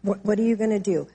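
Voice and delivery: softly voiced inner critic, lightly acted; a hint of self-reproach, under the voice; condemning inner voice. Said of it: "you hear that condemning voice".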